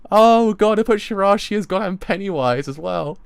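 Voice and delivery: loud, high, laughing exclamation; real hilarity. Real, not acted. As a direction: gasp it out while cracking up. Delighted reaction amid laughter.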